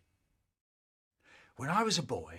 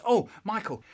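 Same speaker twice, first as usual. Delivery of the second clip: cheery mum; 6 semitones higher, 7 dB louder than usual. Retold or imitated. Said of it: "Mum says".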